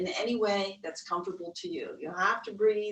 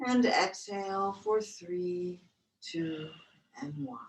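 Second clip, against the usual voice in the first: guided breath count. Acted.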